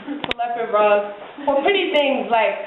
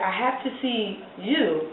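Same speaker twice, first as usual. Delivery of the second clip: softer, lower lover's request; quiet earnest plea; 4 semitones lower, 9 dB quieter than usual. Acted. Bob to his partner in bed, low earnest plea. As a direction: plead gently and low, as the lover.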